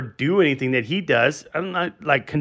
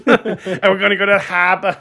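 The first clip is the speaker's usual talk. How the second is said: light Peter Griffin voice, laughing; a hint of a cartoon dad; 3 semitones higher, 5 dB louder than usual. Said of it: "that's the, uh, Peter Griffin".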